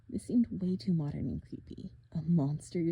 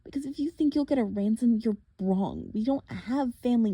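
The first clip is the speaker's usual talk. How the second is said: higher and louder, standing up to him; defiant girl; 3 semitones higher, 5 dB louder than usual. Acted. Girl refusing the monster's ransom, defiant. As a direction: defy the captor.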